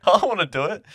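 high, loud whine; whiny scared refusal. Retold or imitated. Retelling refusing to grab the mouse, high loud whine. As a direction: whine it like a frightened kid.

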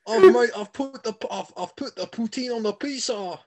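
put-on high, loud Italian Quebec accent; hammy Italian Quebecer, laughing. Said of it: "Imagine being an Italian from Quebec".

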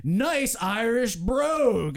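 slow, lightly voiced generic announcer; a hint of drawn-out announcer patter; radio announcer. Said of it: "generic radio announcer voice than I will".

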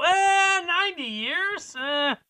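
high careless "eh", then a lazy shrugging question; mock indifferent shrug. Imitating the uncaring court, high and dismissive. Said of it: "Somebody didn't look at that going".

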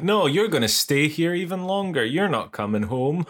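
gleeful mock villain, starting high; hammed-up refusal tipping into laughter; gloating boss. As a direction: taunt like a pantomime boss. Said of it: "And he was like".

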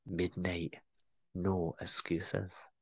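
Scottish boss murmurs a creepy command. Acted. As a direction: murmur it menacingly close. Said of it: "I creep myself out saying that".

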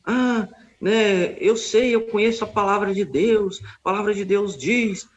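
leicht höher, spöttisch nachgeäffter Besserwisser; äff den selbstgerechten Gegner höher nach; mocking the opponent. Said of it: "e ele falou assim".

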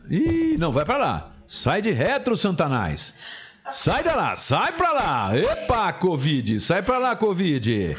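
shrill-free high yelp, shooing away; high mock shooing. Real, not acted.

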